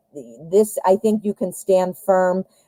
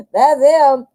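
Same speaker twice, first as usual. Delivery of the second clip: excited; 6 semitones higher, 5 dB louder than usual. Real, not acted. Laughing at the card.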